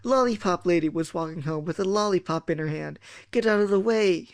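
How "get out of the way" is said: mild storytelling yell. Acted. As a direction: call a warning with restrained force. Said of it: "Hamburger yelled".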